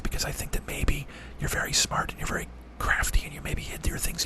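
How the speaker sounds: soft unvoiced sleepy whisper; ASMR whisper. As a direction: lull them to sleep in a whisper. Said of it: "that's me doing some A M S R".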